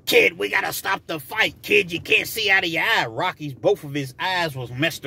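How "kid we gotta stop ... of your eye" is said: lightly voiced worried boxing trainer, higher pitch; Mick. Trainer to hurt boxer, urgent imitation. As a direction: urge your battered fighter to quit. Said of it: "and, and Mick".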